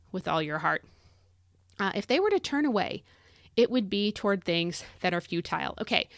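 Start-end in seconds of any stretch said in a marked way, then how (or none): 5.2-5.7 "futile" as FEW-tile; "futile" ending like the word tile; pronunciation of futile. Real, not acted. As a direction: say "futile" with a long-i second syllable. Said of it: "I'm saying futile because".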